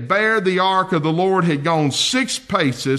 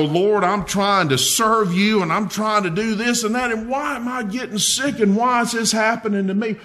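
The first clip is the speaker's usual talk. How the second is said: higher, fast, aggrieved questioning; complaining; 5 semitones higher than usual. Retold or imitated. Believer complaining to the Lord about sickness, higher and aggrieved. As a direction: whine the why questions at God. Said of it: "And you go".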